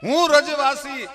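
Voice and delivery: high, loud, chant-like oratory; ringing bardic call; full-force declamation. A narrator's reading. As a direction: cry out to Krishna on a high sustained pitch. Declaims Draupadi's words to Krishna.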